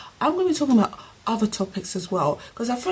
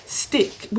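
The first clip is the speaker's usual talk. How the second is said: whispered echo; 3 semitones higher than usual. Shown as a demonstration. Echoing her own warning to viewers in a whisper. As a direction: Stick whispered back as an echo.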